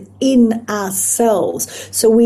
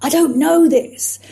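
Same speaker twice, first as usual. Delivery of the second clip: scared protector part; 5 semitones higher than usual. Retold or imitated. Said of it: "It's like".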